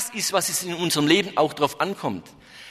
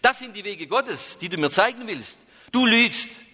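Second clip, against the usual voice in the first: higher, fast indignant tirade; angry outburst; 3 semitones higher than usual. Acted. Hermit rejects the companion in a higher, rising tirade. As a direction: pour out his outrage, rising to a cry. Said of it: "schrie er".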